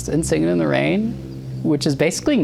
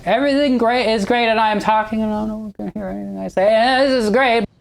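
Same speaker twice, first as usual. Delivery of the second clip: much higher, stilted actress voice speaking into a hidden mic; shrill early-talkie actress; 9 semitones higher than usual. Retold or imitated. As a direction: ham up a shrill silent-film star stuck with her first microphone. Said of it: "so it would be like".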